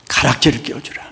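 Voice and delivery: usual speaking voice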